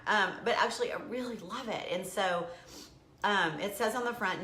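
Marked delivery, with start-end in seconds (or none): none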